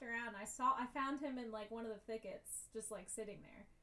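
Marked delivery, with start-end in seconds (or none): none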